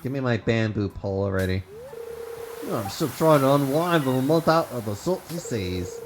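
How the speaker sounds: lightly voiced old sea dog; a hint of a salty sailor; gruff old fisherman. Voicing Willy the fisherman.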